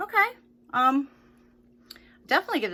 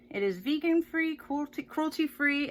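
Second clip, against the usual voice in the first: whispering; 6 semitones higher than usual. Real, not acted. Reading label aloud.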